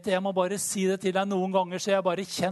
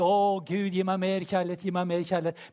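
mock crying out; 3 semitones higher than usual. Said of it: "bare ropte jeg til Gud".

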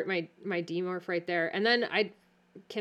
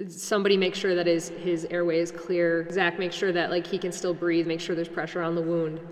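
mildly bossy orders; bossing people around. Acted. Player voices her character ordering helpers around, mildly bossy. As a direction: give brisk, take-charge instructions. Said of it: "I just wanna start bossing people around".

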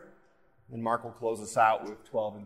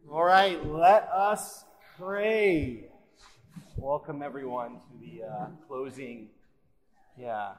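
digital echo; 4 dB louder than usual. Real, not acted. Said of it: "some kinda echo effect turned on on the microphone".

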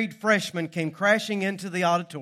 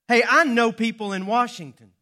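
arrogant boast; 6 semitones higher, 6 dB louder than usual. Pretend. Acting out arrogant name-dropping.

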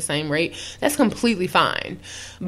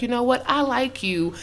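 sweet confession; 3 semitones higher, 5 dB quieter than usual. Retold or imitated. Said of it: "I would rather just be like".

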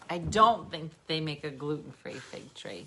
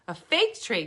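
New Jersey fig tree; 3 semitones higher, 3 dB louder than usual. Retold or imitated. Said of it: "Fig tree, not fig tree".

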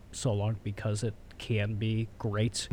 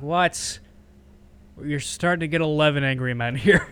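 loud, high mock outrage from the other jurors; outraged jurors; 4 semitones higher, 6 dB louder than usual. Other jurors scoff at the lone holdout, loud and high. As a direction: blurt it out in disbelief, pitched up.

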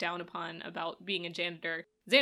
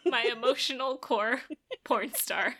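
laughing; 3 semitones higher than usual. Real, not acted. Laughing while joking.

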